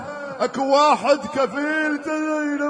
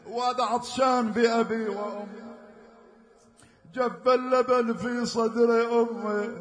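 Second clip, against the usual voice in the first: quieter, lower, grieving telling; subdued mourning narration; 5 semitones lower, 3 dB quieter than usual. Acted. Reciter recounting the infant's death, quietly grieving. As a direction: tell the infant's fate softly.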